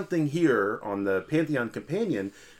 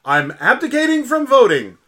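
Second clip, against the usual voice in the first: put-on Yakov Smirnoff Russian accent; 7 dB louder than usual. Co-host voicing a listener in a mock Russian accent. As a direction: ham up a Russian comedian's accent, then let it drop. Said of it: "He says it like this".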